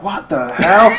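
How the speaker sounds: high, rising mock disbelief; astonished firemen. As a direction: imitate a stunned, incredulous reaction.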